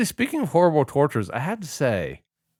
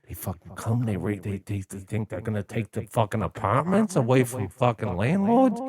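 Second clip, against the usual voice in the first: put-on Brooklyn accent. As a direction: rant like a Brooklyn subway guy. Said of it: "Brooklyn auto-tune guy".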